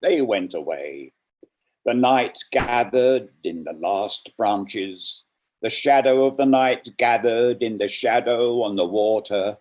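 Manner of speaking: dramatic poetry reading; poem reading. Acted. Reader performing Merwin's The Last One with weight. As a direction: read it with rising menace and weight.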